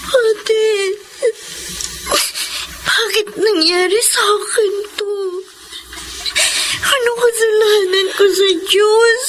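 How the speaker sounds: tearful, broken questions; crying. Acted. Victim crying to her older sister why this happened. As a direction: sob it out.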